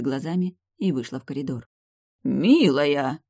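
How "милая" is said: gasping. Acted. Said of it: "ахнул дедушка".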